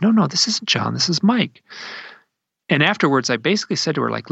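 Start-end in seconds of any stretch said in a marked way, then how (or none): 0.0-1.6 retold parent's correction, higher pitched; gentle correction. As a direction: imitate a mother correcting her child. Mother correcting her young son.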